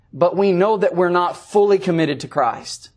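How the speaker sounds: fully said with weight, each time; stress on fully. Real, not acted. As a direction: lean on the word fully. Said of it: "I want us to emphasize that word full".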